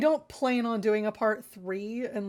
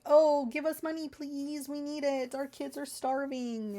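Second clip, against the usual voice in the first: mock pleading; 5 semitones higher than usual. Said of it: "They're still being like".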